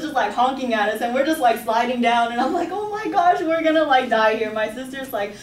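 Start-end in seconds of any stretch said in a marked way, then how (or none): 2.7-4.5 high, loud panic as the car slides back; panicked. Retold or imitated. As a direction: cry out that we're going to die. Car sliding back downhill.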